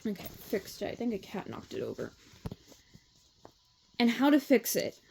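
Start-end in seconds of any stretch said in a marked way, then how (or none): 0.1-2.1 low, quick muttered aside; offhand under-breath remark; quiet aside. Real, not acted. Reader's aside during recording.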